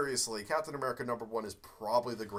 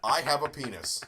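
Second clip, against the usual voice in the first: Ego quote; 6 dB louder than usual. Retold or imitated. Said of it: "when he sees Ego".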